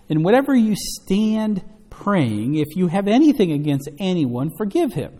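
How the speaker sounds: preacher declaiming scripture; scripture reading. Acted. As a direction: read the verse out firmly to the congregation. Reads scripture aloud to congregation.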